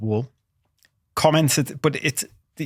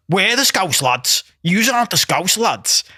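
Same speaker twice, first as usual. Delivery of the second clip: imitated challenge, higher and drawn out; territorial challenge; 4 semitones higher, slower than usual. Local lad confronting holidaymakers in a bar, challenging. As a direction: stake the claim slowly, stretching the words.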